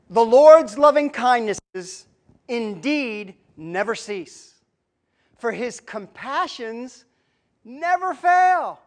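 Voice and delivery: slow, emphatic scripture reading. Acted. Preacher reading Lamentations to the congregation, slow and emphatic. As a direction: proclaim it slowly, pausing between phrases.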